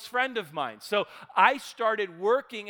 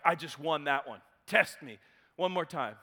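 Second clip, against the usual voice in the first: smug challenge; 6 semitones lower, 3 dB quieter than usual. Retold or imitated. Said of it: "standing there like he just".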